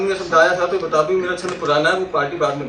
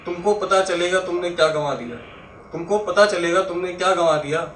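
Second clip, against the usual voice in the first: poetry recitation. Acted. Recites a four-line verse.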